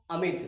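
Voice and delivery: अमित with a quick, short i. Shown as a demonstration. Teacher repeats the short matra word, short i. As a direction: keep the second vowel of अमित brief. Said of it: "आराम से मेरे दोस्त".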